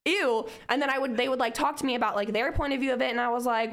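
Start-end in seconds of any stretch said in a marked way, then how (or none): 0.1-0.5 high, snotty mock disgust; imitating her offended younger self, high and scornful; disgusted scoff. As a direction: sneer at their easygoing faith. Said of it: "in a way where I was like".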